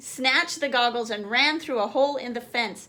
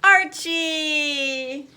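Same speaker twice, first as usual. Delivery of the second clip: surprised; 4 semitones higher, 7 dB louder than usual. A narrator's reading. Startled relief at Archie.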